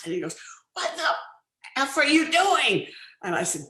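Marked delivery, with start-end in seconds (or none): 0.7-2.9 high, loud, drawn-out mock fury; outraged retold yell, stretched out; wrathful outburst. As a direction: imitate a furious actor exploding at a co-star. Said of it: "turns on me with that wrath".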